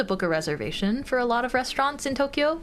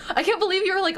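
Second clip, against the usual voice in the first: laughing; 9 semitones higher, faster than usual. Real, not acted. Laughing at friend's reaction.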